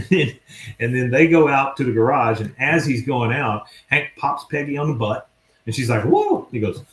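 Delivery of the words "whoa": very high-pitched little whoa; mock startled yelp, pitched way up. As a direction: imitate a wife caught by surprise. Peggy startled by pat on butt.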